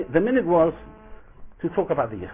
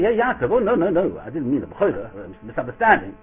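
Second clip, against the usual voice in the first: mock backpedaling; 2 semitones higher, 4 dB louder than usual. Esav backpedals in the retelling.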